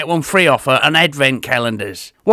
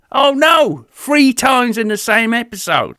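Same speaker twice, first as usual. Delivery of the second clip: mock panic; 6 semitones higher than usual. Comic panic at an accidental pun.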